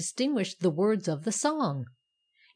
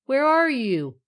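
high, loud searching call; cried out; 6 semitones higher, 8 dB louder, slower than usual. A narrator's reading. Lefty searching for the hidden poker, crying out. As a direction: call up to someone out of sight. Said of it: "cried Lefty".

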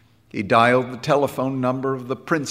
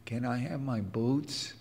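soft, lifeless question; dully; 9 dB quieter than usual. A narrator's reading. Beaten boy asking the bandleader for his boots, soft and dull. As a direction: ask it with nothing left. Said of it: "said Jim dully".

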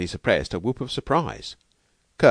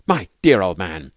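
delighted; 7 dB louder than usual. Acted. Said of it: "Kirk was stammering in his delight".

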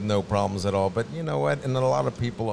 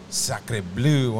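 French accent. Shown as a demonstration. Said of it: "That's my French for today".

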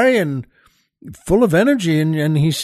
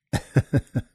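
soft laugh; 5 semitones lower, 5 dB quieter than usual. Real, not acted. Soft laugh after the joke.

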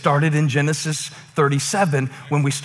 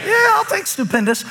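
excited shout. Real, not acted. Pastor cheering the congregation's word stupendous, shouting.

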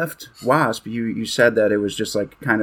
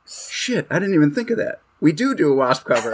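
surprised realization; 5 semitones higher than usual. Retold or imitated. Retelling friend's realization.

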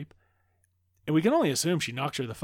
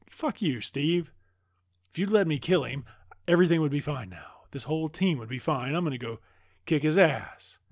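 raised, louder voice of mock fury; acted angry outburst; 4 semitones higher, 5 dB louder than usual. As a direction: lash out in blame, playing it up. Acts Diana angrily blaming Steve.

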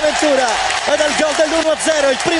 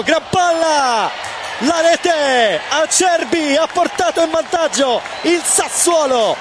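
excited goal call; slower than usual. Real, not acted. Goal call in live commentary.

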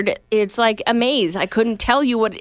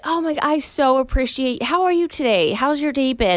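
lightly Southern, higher-pitched and extra sweet; 4 semitones higher than usual. Shown as a demonstration. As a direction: lay on gentle Southern sweetness. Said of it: "I'll even sound a little more Southern".

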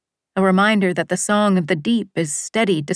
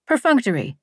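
teacher's pronunciation; 4 semitones higher than usual. Retold or imitated. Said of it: "Missus Abbott ... had pronounced for us".

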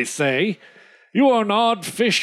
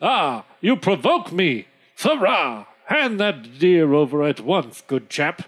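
loud, lower blustering gent; hammy outrage; provoked squire; 4 semitones lower, 3 dB louder than usual. Acted. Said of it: "Squire Jack says".

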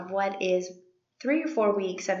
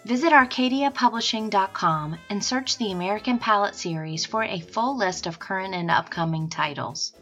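upbeat sponsor read. Acted. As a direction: read it like a podcast ad. Sponsor read over music.

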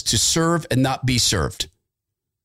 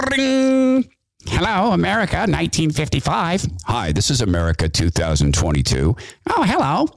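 mock phone call. Acted phone call between eras.

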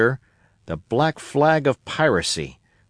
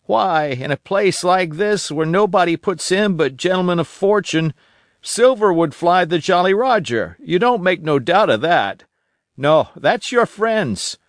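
put-on a higher, eager old sailor voice; old castaway Ben Gunn; 4 semitones higher than usual. Old castaway telling Jim about Flint, eager and higher. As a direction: spin the tale of Flint like a wild old castaway.

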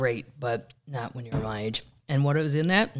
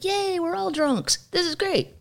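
mock drunk cheer. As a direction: squeal like a happy drunk. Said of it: "the third one's like".

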